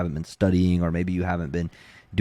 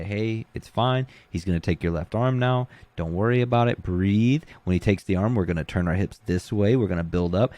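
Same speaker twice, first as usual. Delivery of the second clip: nice and calm. Shown as a demonstration. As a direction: talk them through it like nothing's wrong. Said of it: "But when you're nice and you're calm".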